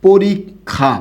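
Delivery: পরীক্ষা said with a held k then kh, like পোরিকখা; doubled kkh. Shown as a demonstration. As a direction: say পরীক্ষা as porikkha. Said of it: "কী লিখছি শব্দটা বলুন তো".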